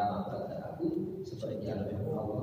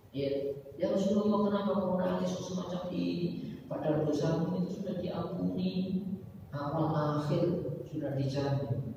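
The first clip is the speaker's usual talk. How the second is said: higher pitched, a hint of an astonished companion; wondering companion; 8 semitones higher than usual. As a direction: lightly voice a puzzled companion asking why. Companion asks the weeping Prophet. (sedikit meniru sahabat yang heran, suara lebih tinggi)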